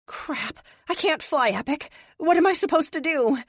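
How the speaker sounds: loud panicked plea to Epic; panicked outburst. A narrator's reading. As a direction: cry out in helpless panic.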